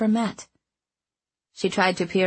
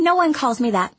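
sweet chiding; 6 semitones higher, 3 dB louder than usual. A narrator's reading. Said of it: "she chided sweetly".

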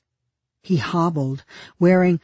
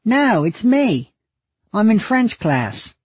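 high, loud braying into a phone; 8 semitones higher, 4 dB louder, slower than usual. Acted. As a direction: bray it out, slow and loud.

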